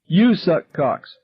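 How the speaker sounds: high, slow, loud shriek; screamed. A narrator's reading. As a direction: scream it through her arms. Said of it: "Irma screamed from behind".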